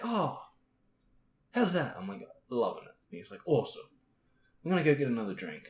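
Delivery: put-on high cheerful drunk chatter; breezy tipsy small talk; drunk friend. Drunk friend keeps talking.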